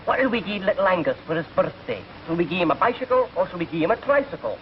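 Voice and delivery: lightly put-on Scots accent; Scottish mother. Mother planning boy's birthday, light Scottish accent. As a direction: ask it as a comic Scottish mother. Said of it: "And his mother said to his father".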